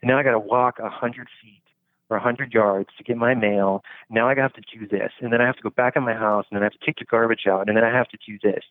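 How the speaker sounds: fast, fed-up muttering; hurried irritated rant about chores; grumbling complaint. Retold or imitated. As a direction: rattle off chores like an annoyed man. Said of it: "you're like".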